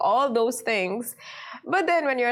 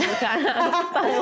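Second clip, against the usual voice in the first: half-laughing complaint, higher; 4 semitones higher than usual. Real, not acted. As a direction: giggle as you say it. Laughing at social rules.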